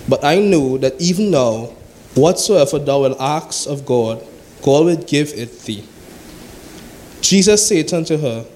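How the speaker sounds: measured, solemn Bible reading; steady preacher reading scripture. Acted. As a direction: read the verses aloud to the congregation.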